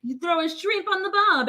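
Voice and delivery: put-on a light, jokey Australian accent; mock Australian accent. Cohost joking to an Australian viewer in mock Australian accent. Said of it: "we don't talk like this".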